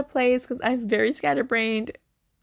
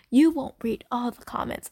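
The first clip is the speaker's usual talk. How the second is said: imagined voice from the past. Retold or imitated. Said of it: "I'd be like".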